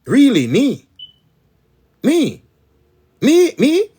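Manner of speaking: high, loud disbelieving cry of me; imitating tearful disbelief. Retelling how he used to cry to the Almighty, tearful and high-pitched. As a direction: act out your old self crying out in wonder. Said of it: "Me used to cry, come here".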